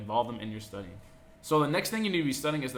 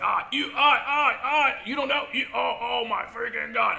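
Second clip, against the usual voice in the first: much higher, louder exasperated yell; a drill instructor blowing up at a clueless recruit; drill instructor losing it; 11 semitones higher, 7 dB louder than usual. Retold or imitated. Instructor yelling at recruit who doesn't know, furious shout. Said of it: "And he's gonna lose his mind".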